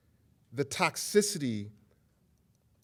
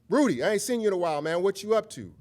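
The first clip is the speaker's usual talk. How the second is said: mock casual greeting; 6 semitones higher, 4 dB louder, faster than usual. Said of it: "we might say something like this".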